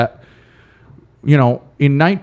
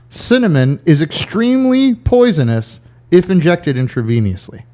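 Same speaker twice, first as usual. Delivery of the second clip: quiz host voice. Shown as a demonstration. Reading trivia statements slowly.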